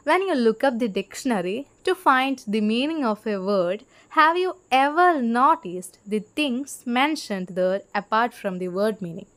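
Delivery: slow, deliberate reading aloud to students; slow textbook reading. Shown as a demonstration. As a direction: read each word out slowly for the class. Reads English textbook line slowly. (പതുക്കെ പാഠപുസ്തകം വായിക്കുന്നു)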